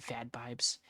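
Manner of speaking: whispered with a laugh; whispered aside. Real, not acted. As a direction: breathe it as a joking aside.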